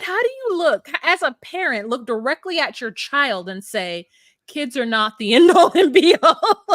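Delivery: rising disbelief breaking into laughter; incredulous laughing. Real, not acted. Viewer ranting at the mother, laughing in disbelief. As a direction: laugh through the outrage.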